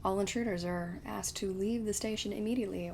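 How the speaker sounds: lightly done flat robot announcer; a hint of a monotone station robot. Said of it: "Mass Effect robot impression".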